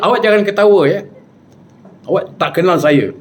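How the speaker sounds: mock-stern warning starting high; retold indignant threat; angry. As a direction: imitate the offended spirit's scolding. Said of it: "dia marah".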